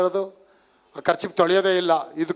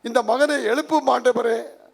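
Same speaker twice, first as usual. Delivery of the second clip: mock tearful prayer; 5 semitones higher than usual. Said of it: "ಹತ್ಕೊಂಡು pray". (ಅಳುತ್ತಾ ಬೇಡುವ ಅಣಕು ಪ್ರಾರ್ಥನೆ)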